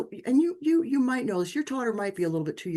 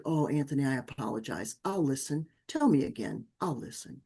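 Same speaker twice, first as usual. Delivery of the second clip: gentle apology; 4 semitones lower than usual. Retold or imitated. Mother apologizing gently to son.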